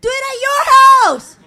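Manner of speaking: mock shout at the family; retold shout. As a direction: fling it back at the family. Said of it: "I'm like".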